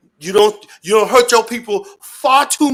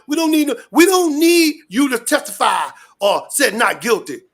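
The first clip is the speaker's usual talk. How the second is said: shouted rant; 3 semitones higher than usual. Real, not acted. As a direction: hammer it home, yelling. Ranting about the tapes.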